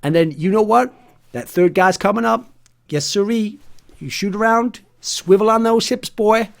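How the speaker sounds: put-on swagger through it like a country boy; cheesy Red Deck accent, high-pitched; hammed-up Red Deck accent. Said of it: "the accent went everywhere".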